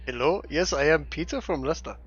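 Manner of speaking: Indian call-centre agent impression; Indian accent. Player posing as call-centre Peter from Leicester, mock Indian accent. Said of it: "got an in-, Indian accent".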